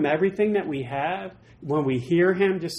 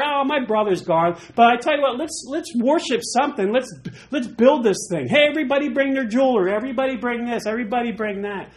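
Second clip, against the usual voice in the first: rallying Aaron; 5 semitones higher than usual. Retold or imitated. Aaron rallying people for idol.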